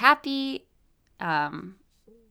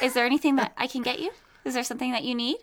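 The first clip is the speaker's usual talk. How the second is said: customer service voice; 3 semitones higher, much faster than usual. Pretend. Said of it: "did I just do mine?".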